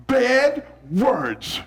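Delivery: weighty, disapproving pronouncement; emphatic moral judgment. Shown as a demonstration. First grader judging a classmate, emphatic disapproval. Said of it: "you wanna be very emphatic".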